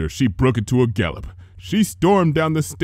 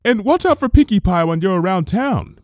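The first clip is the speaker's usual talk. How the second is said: higher, louder call from the kitchen; 9 semitones higher, 4 dB louder than usual. A narrator's reading. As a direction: call across the room. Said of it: "Missus Cake called out".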